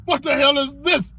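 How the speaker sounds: high mock astonishment; drawn-out, high-pitched disbelief; exasperated girlfriend. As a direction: imitate a stunned partner. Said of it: "She looking at you crazy like".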